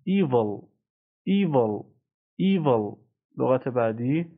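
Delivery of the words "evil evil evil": "Evil" with a long EE, then a short vol; teacher's careful EE-vol for "Evil"; drawn-out first vowel. Shown as a demonstration. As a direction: stretch the opening vowel of "Evil".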